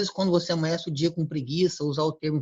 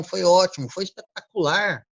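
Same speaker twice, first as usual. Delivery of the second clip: energy lifting; 4 dB louder than usual. Shown as a demonstration. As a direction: show the energy climbing as you answer. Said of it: "Observe que sobe um nível de energia".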